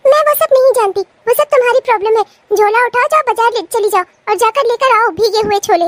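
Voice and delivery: petulant, imperious ordering; bossy dismissal. Acted. Sister-in-law sends bhabhi to the market, bossy and petulant. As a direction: brush off the excuse and give orders.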